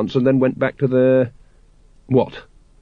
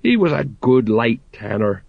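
sorrowful sergeant. Acted. Colon mourning Gaskin.

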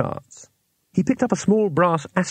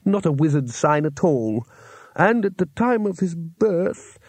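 fussy astrologer; 2 semitones higher than usual. Acted. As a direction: lecture it like a fussy old scholar. Astrologer character voice.

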